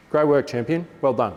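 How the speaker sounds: bright, upbeat praise for a student; praise demo. Shown as a demonstration. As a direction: cheer the kid on warmly. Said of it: "So I'll do something like that".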